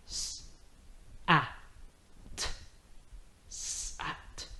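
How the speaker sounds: soft sounds blended into Sat; s, a, t, then Sat whispered; sounding out words. Shown as a demonstration. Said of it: "one more time".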